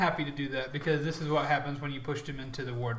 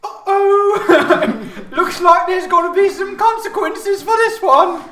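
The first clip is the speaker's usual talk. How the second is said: high, loud cartoon announcer with laughs; booming gleeful announcer; loudspeaker announcer voice; 12 semitones higher, 13 dB louder, slower than usual. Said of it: "you hear over the loudspeaker say".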